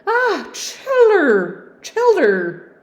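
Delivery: long, loud, high Yorkshire wail; Yorkshire cry. Acted. Servant calling the children, high and loud Yorkshire wail.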